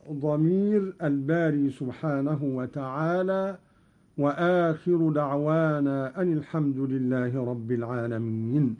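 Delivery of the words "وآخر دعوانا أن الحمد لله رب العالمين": usual speaking voice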